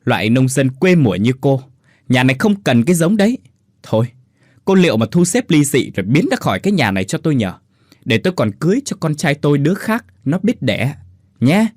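mother-in-law spitting scorn; cutting scorn. Acted. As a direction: grind her down with scorn. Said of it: "Bà Tuyết đay nghiến".

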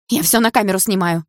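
put-on girl shouting at the thugs. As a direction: call out to warn them. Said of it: "выкрикнула я".

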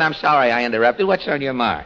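normal talking voice

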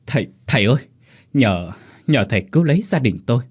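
mild frightened stammer; stammering plea. Acted. Second wife begs the sorcerer for help, stammering. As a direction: stumble over the words, begging for help. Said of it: "bà lắp bắp".

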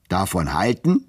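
a mild mock bellow from the clerk; hammed-up angry shout; roaring. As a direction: bark it back like a hot-tempered clerk. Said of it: "brüllte Turkey".

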